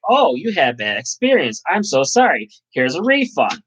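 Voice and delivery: sugary customer-service sorry; mock Uber support. Driver mocking Uber apologizing to a passenger, sugary. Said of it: "Uber's gonna be like".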